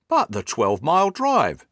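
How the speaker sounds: gasped astonishment. A narrator's reading. Hatherley objects to Holmes about the drive, gasping in astonishment. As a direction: exclaim it as a mild gasp of disbelief. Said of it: "gasped Hatherley".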